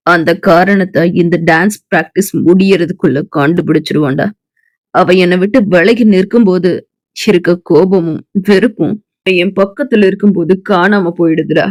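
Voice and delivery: put-on low, calm young man; Arjun's voice.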